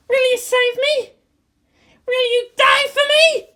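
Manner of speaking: put-on high, pleading girl's voice; a high, desperate teenage plea; desperate pilot girl. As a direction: beg him, half broken. Asuka pleading.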